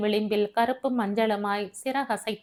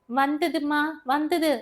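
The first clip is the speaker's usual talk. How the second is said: put-on higher, eager small child; a small child pointing out something excitedly; little boy; 5 semitones higher, slower than usual. Young son tugs mother's hand, lightly voiced small boy.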